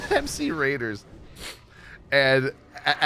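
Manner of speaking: usual speaking voice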